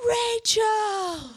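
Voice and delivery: high, loud, beaming call of her name; joyful greeting. Retold or imitated. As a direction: greet her like you're glowing. Glowing boyfriend greeting.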